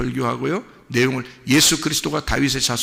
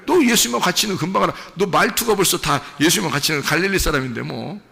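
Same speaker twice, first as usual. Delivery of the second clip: a crowd member catching Peter by his accent, lightly voiced; mock accusing bystander; 2 semitones higher, faster than usual. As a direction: rattle off the accusation knowingly. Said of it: "그러니까".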